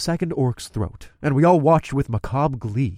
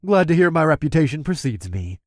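smirking; 3 semitones higher than usual. Acted. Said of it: "I smirked".

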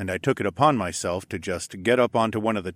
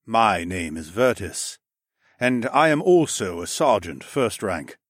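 sergeant Vertis voice. Acted. Vertis introduces himself.

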